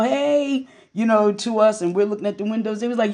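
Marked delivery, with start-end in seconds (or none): 0.0-0.7 mock yell. Neighbors calling to the sisters at the window, mock yell. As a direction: imitate neighbors hollering hello without raising volume. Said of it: "they would yell".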